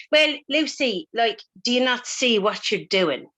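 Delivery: a gentle Irish lilt, half-hearted; imitating Irish coach. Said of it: "please ignore my Irish accent".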